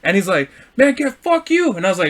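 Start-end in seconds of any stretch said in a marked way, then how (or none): 0.8-1.7 very high mock cursing; retold angry brush-off. Parked driver cursing the teller, retold high and angry. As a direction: imitate a driver telling someone off.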